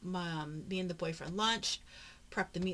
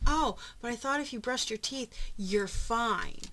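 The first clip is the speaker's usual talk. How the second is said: mock teasing; 4 semitones higher, 6 dB louder than usual. Mocking son's dentist logic.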